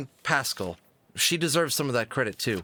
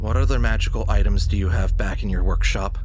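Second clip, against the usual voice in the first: alarmed; 8 dB louder than usual. Acted. Fox realizes raccoon robbed Santa.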